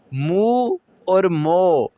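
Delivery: मू with a long rounded oo, मो with a clear oh, very slowly; contrasting vowel sounds. Shown as a demonstration. Teacher to students, slowly sets मू against मो. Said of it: "दोनों में फ़र्क देख लें".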